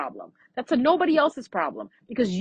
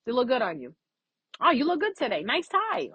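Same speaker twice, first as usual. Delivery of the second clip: light, easy friendly praise; cheerful, friendly compliments; 5 semitones higher than usual. Retold or imitated. To a friend, light friendly compliments. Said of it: "We're more like this".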